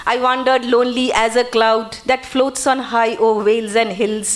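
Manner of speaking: slow, measured verse reading; poem recitation. Shown as a demonstration. Teacher quoting Daffodils to the class, measured recitation. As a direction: recite it slowly, line by line.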